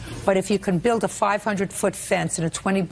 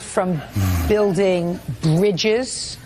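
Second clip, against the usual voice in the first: sarcastic; slower than usual. Real, not acted. Judge mocks disabled claim.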